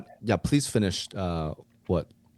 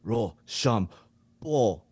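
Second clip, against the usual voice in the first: put-on chanted count in Japanese accent; Japanese coach; 2 semitones higher, much slower than usual. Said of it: "you to be the Japanese coach".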